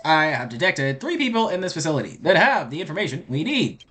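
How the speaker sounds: lightly voiced robot. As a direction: read it out as a robot would. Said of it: "I'm not doing the robot voice".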